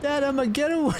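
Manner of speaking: put-on very high kid voice; squeaky child. Child correcting Dad, very high squeak. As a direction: protest like a little girl.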